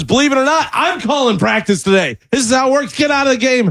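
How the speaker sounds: put-on high-pitched scolding, like at a little kid; imitated coach yelling. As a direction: act out a coach laying down the law. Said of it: "yelling at him like he's a little kid".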